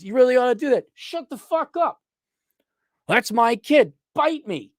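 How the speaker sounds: high mocking kid-sibling jab; bratty sibling. Mocking his sister in a high bratty voice. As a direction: sneer like a teenage sibling.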